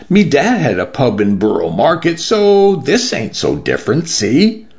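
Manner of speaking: put-on young newcomer chatting in London dialect; shy young Londoner. Lottie, young Londoner, answers.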